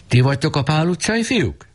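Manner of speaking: high, calling stern gentleman; stern man calling in. A narrator's reading. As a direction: call in from the doorway. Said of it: "és bekiáltott".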